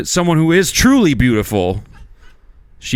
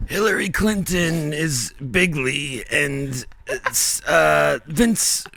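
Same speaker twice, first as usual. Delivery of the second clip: Trump impression; much slower than usual. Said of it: "You have to do it again".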